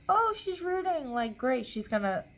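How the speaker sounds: mock the doubters with scorn; sarcastic mocking. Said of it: "Okay, it's like".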